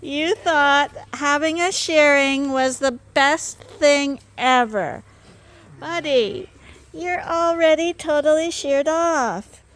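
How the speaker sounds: telling the sheep he loved his shearing, high and loud; pet talk. Real, not acted. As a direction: gush over the animal. Cooing at freshly sheared sheep.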